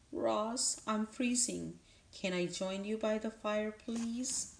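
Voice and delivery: small, high, pleading squirrel; weak squirrel voice. Acted. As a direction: beg weakly in a high little voice. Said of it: "said a weak voice".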